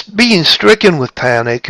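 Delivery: lively, punched "stricken with panic"; stricken with PANIC, emphatic. Shown as a demonstration. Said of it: "express the difference between the two".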